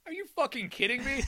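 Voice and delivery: high, laughing mock indignation; laughing outrage. Retelling Tim's outburst at the lady, laughing. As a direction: blurt it out through laughter. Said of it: "And Tim goes".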